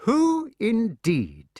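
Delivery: high, very slow sly drawl; sick son teasing the avenger. Acted. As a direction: toy with him. Mordred's sly answer.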